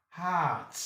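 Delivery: "Heart" as "haaht", no R sounded; long A. Shown as a demonstration. Teacher drills long A examples, drawn-out "Heart". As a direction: hold the open "ah" in "Heart". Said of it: "gives you long ha".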